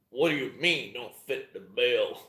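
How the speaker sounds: lightly put-on American accent impression; Dave Vincent. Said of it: "my favorite fucking line in his American accent is like".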